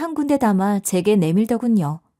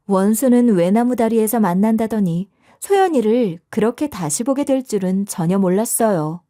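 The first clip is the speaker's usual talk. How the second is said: ordinary delivery, nothing marked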